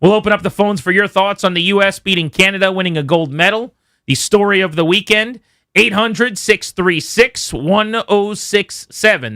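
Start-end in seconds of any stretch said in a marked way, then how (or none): 5.7-9.3 slow phone number read. Acted.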